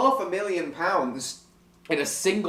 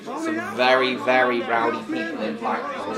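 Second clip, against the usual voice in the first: put-on northern accent; 6 semitones lower than usual. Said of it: "what do you think of my northern accent".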